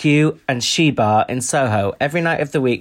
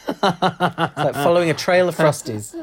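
laughing; 3 semitones higher, slower than usual. Real, not acted. Laughing at own joke.

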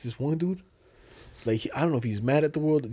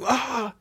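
high imitated freak-out cry; mock yell; 9 semitones higher than usual. Retelling a man freaking out at a car, mock yell. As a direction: imitate a man yelling, without full volume. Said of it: "like, yelling".

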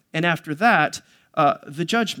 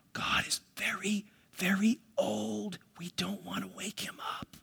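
mock whisper; 12 dB quieter than usual. Pastor parodies stuffy old churches in a mock whisper. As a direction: tiptoe the words like a nervous churchgoer. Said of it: "like some of the church services".

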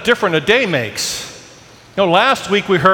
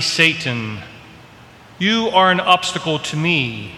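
solemn, measured scripture reading; gospel reading. Acted. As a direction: read it like Sunday Mass. Priest reads the gospel aloud.

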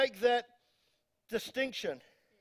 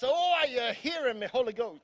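mock fervent preacher; 3 semitones higher, 4 dB louder than usual. Mock fervent preacher cry mid-announcement.

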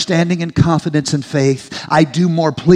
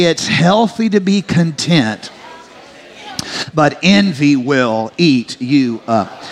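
slow, pointed know-it-all recitation; slower than usual. Shown as a demonstration. Congregation pointing at a neighbor, smug know-it-all. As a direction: lecture your neighbor like a smug grandma. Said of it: "say it like you're a know-it-all".

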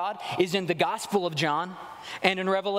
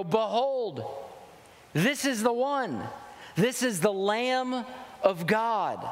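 slow, raised, emphatic announcing of the Lamb; emphatic proclamation; 3 semitones higher, slower than usual. Retold or imitated. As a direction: proclaim it slowly like a herald, pitch up. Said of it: "I can hear him go".

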